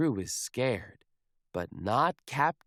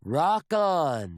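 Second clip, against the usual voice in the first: louder, upbeat call; cool cheer; 3 semitones higher, 5 dB louder than usual. Acted. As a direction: cheer the drummer on. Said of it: "says Captain Pete".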